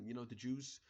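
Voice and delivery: "the Jews" in a brief, accidental German accent; the German accent slips out for a moment on "the Jews". Real, not acted. The vlogger's German accent slipping out while musing aloud. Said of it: "I had a German accent for a second there".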